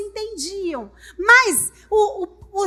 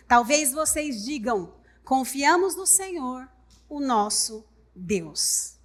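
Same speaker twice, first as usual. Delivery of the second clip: slow mocking quote; 5 semitones lower, 4 dB quieter, slower than usual. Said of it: "Ele diz assim".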